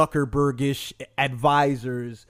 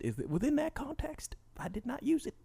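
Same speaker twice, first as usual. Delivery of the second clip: whispered, sneaky denial; 8 semitones higher, 10 dB quieter than usual. Acted. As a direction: whisper it like a guilty secret. Whispering during impression.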